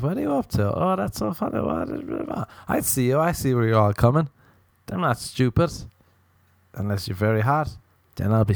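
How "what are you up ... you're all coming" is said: imitating flirty women. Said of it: "now they're like".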